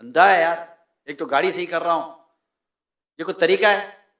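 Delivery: mildly irritated complaint; cross reaction. Acted. Friend knocked down while fixing the car, mildly cross complaint. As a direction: grumble at a careless friend. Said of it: "दो action".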